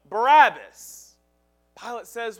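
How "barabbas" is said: a shouted name from a mob; crowd shouting. Retold or imitated. Crowd yelling to Pilate for Barabbas, loud. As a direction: call it out like an angry crowd. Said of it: "The crowd cries out".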